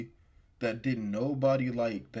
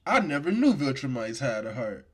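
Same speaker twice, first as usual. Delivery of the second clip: louder, raised-pitch villain quote; Conquest; 5 semitones higher, 5 dB louder than usual. Retold or imitated. Friend quoting Conquest in a fight debate, loud and heated. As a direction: act out the threat, pitched up and forceful. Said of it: "Conquest was like".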